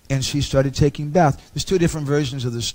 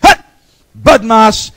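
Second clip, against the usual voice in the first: furious yelling; 5 semitones higher, 9 dB louder than usual. Retold or imitated. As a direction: roar it down at the trembling king. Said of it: "started yelling at him".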